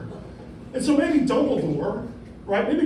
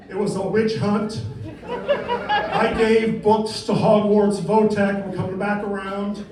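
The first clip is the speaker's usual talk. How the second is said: Trump impression. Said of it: "this is my impersonation".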